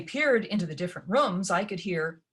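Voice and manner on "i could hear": usual speaking voice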